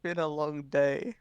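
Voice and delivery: slow, drawn-out reply; weary drawl. Acted. Shopkeeper tells a concerned customer about his day, weary. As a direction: stretch it out wearily.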